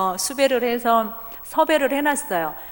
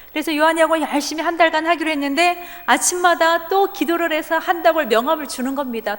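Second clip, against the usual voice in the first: normal talking voice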